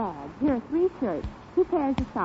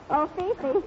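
ordinary delivery

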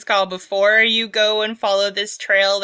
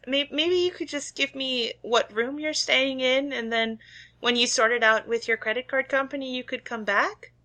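high, gentle shop clerk; sweet small-town cashier; shopkeeper voice; 5 semitones higher than usual. Acted. GM voicing Shirley.

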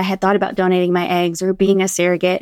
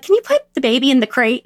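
slip of the tongue; 4 semitones higher than usual. Retold or imitated. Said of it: "I slip on my words all the time".

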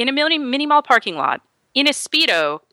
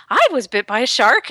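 higher, proud announcement; delighted; 4 semitones higher than usual. Retold or imitated. Woman showing off her scar, retold delight. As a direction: imitate someone thrilled to show off an injury. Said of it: "delighted to show me the scar".

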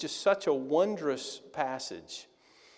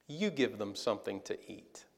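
quiet calm command; 7 semitones lower, 8 dB quieter than usual. Retold or imitated. Jesus softly tells disciples to feed the crowd, quiet and calm. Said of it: "Jesus responded with this".

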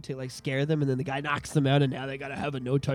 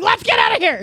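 scared urging; 13 semitones higher, 7 dB louder than usual. Retold or imitated. Retold scared friend.

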